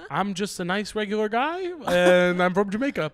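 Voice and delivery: Jamaican accent. Shown as a demonstration. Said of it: "That's my Jamaican accent".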